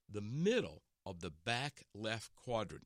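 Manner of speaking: slow, precise caddy voice, lightly put on; caddy's instruction. Golfer imitating his Augusta caddy, slow and precise. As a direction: spell out each word like a solemn caddy. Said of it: "Listen to this".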